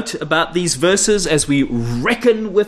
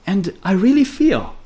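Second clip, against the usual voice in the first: mock gushing; 3 semitones higher than usual. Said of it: "the language of modern spirituality".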